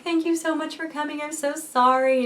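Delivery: high-pitched imitation of tearful gratitude; mock-weepy thanks, stretching the apology; retold tearful thanks. Labouring woman thanks sister-in-law for coming, mock tearful. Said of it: "I'm, like, crying".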